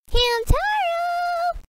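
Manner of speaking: high drawn-out whisper yell. Acted. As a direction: call his name in a hushed yell. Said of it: "fake whisper yell I do for Hamtaro".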